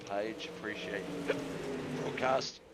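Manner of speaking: words broken by hiccups. Real, not acted. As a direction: talk through a hiccup. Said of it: "if I'm not yawning, I'm hiccuping".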